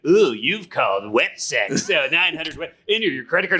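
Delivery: put-on sultry come-on; sultry phone-line voice. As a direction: imitate a sultry recorded hotline greeting. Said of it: "listen to the sultry voice".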